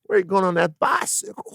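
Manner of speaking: put-on cop hollering at kids; calling from far away. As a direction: call out like a cop down the block. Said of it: "the cops would have been like".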